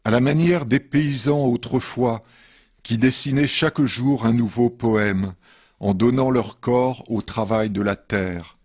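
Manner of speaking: measured poetry reading with pauses between verses; poem reading. Acted. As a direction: read each verse line apart, letting it settle. Reads fourth poem after musical break. (lecture de poème posée)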